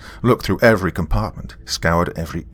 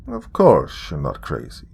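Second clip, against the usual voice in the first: gentle purr; 2 semitones lower than usual. Acted. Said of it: "he purred gently".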